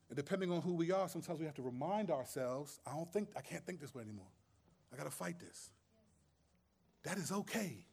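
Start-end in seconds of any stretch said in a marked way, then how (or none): 2.9-5.7 low, soft, inward self-talk; quiet self-reminder. Acted. Believer reminding himself to fight sinful thinking, quietly. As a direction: say it softly, as if reminding yourself.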